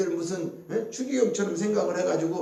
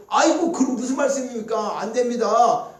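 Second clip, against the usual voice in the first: imitated protest; 3 semitones higher than usual. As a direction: act out a disciple objecting to his master. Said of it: "그러면서 막 항변하는 거예요".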